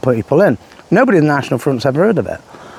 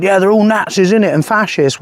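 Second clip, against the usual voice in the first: lightly mocked London accent, raised pitch; a touch of fake Cockney; Tommy's fake London accent; 5 semitones higher than usual. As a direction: mimic a put-on London geezer. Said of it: "this is what Tommy said".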